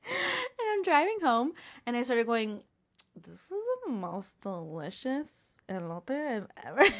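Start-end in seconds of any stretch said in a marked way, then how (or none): 3.1-6.9 mock delight, goofy and sarcastic; goofy sarcastic praise. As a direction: pretend to rave about the food, sarcastically. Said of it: "So then I started being sarcastic".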